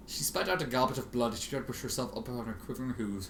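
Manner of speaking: usual speaking voice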